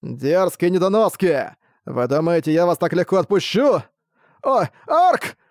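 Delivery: rough, menacing vampire voice; slow, gloating threat from behind; dark lord. Acted. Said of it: "послышался грубый голос". (грубый голос злодея)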